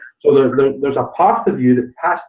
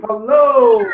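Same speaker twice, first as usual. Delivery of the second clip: higher, punchy "Hello!" as in obviously; emphatic hello; 9 semitones higher, 3 dB louder than usual. Real, not acted. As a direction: make it sound like the answer was obvious. Coach celebrates the answer.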